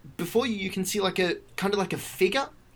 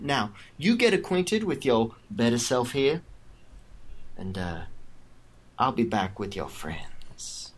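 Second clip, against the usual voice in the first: villain farewell; 4 semitones lower than usual. Acted. Villain leaves the captive.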